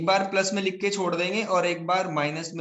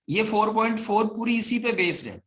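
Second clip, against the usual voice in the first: voice breaking. Real, not acted. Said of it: "sir, आपकी आवाज break हो रही है".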